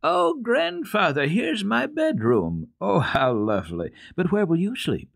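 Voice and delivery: put-on high, excited little-girl cry; a child's joyful high-pitched exclamation; excited shout. A narrator's reading. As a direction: squeal it out with delight at the new bedroom. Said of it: "Heidi shouted".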